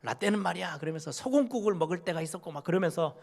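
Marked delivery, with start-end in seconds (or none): 0.0-0.8 a hint of a lecturing old pastor, slightly higher; half-hearted preachy "라떼는 말이야"; mock scolding elder. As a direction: lightly imitate an elder scolding students. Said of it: "막 야단치면서".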